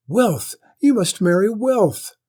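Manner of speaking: high, loud insistent cry; shouted demand. Acted. Lady yelling at her son to marry wealth. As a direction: hammer the word wealth.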